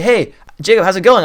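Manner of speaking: high, loud, fast upbeat greeting; excited caller hailing a friend. Shown as a demonstration. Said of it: "come in a little bit higher".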